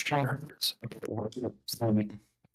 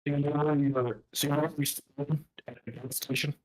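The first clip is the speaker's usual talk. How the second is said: garbled, choppy like underwater; broken-up voice chat audio; 2 semitones higher than usual. Real, not acted. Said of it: "It sounds like it's speaking an alien language".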